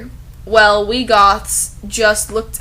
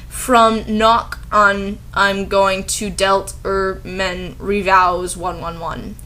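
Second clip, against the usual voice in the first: mock author misspelling; slower than usual. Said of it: "Author's note".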